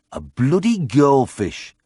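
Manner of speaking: slow, disgusted local grumble. A narrator's reading. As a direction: spit out the words in disgust. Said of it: "a voice saying disgustedly".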